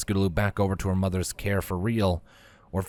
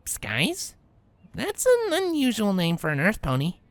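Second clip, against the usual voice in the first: lightly voiced, much higher Rainbow, neutral; somewhat neutral; 13 semitones higher than usual. Rainbow answering Misty, forced neutral tone. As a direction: keep it carefully neutral, feelings pushed down. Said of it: "respond with a somewhat neutral".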